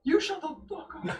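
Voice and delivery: high shout through laughter; laughing yell. Real, not acted. Laughing banter between players.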